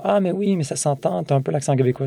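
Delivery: voix aiguë de petit malin, qui redescend; imitation de fins finauds. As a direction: imite un je-sais-tout sur un ton plus haut. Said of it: "deux, trois fins finaux". (singer un fin finaud, voix perchée au début)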